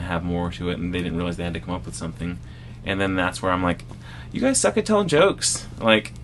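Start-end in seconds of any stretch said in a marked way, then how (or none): 4.3-5.7 high-pitched mock heckle at the crowd; high, teasing punchline voice; mock taunt. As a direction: tease the audience in a raised voice. Re-enacts his taunt to audience.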